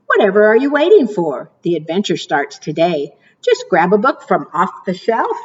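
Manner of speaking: lilting storybook read-aloud; sing-song picture book reading; reading to children. Acted. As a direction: read the rhymes like storytime for little ones. Reads rhyming picture book aloud.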